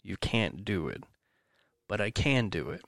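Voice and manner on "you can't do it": lightly voiced inner critic, dropping softer; a hint of a defeated voice in the head; little inner voice of doubt. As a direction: softly voice your own self-doubt. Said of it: "that little voice in the back of my head".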